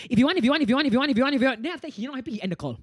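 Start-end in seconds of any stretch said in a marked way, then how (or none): 0.1-1.6 loud, high mock chant cutting him off; mocking repetition. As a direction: drown him out with a taunting loop. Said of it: "then I was like".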